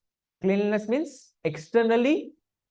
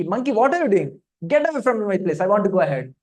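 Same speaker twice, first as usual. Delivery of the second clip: retold shout, moderately raised; mild mock shout; 4 dB louder than usual. Bhima orders a monkey out of his way, mock shouting. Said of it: "he's shouting at this monkey".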